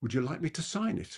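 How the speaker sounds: very gentle, mild, soft voice. Presenter demonstrating confidence by leaning forward to a listener, in a very gentle voice. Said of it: "in a very gentle voice".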